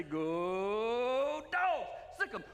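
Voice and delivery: rally the crowd like a fan at kickoff; football cheer. Retold or imitated. Preacher imitating a Georgia fan at kickoff, mock cheer. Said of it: "stand up and say".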